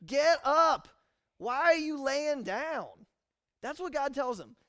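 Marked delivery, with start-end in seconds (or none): 0.1-3.1 very loud, high, slow command; stern shout. Acted. God ordering Joshua up, loud stern shout. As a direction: yell him up off the floor. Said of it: "the Kale twenty eighteen version".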